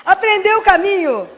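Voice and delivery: laughing through the words, drawn out. Real, not acted. Doctor laughing at the mother's news. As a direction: chuckle it out slowly.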